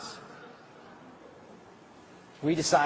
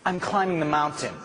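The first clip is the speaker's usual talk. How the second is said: slow firm refusal; 6 semitones higher, slower than usual. Shown as a demonstration. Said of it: "you have to say".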